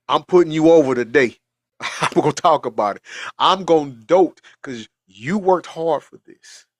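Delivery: proud father boasting loudly; proud and excited. Retold or imitated. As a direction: hype him up with pride.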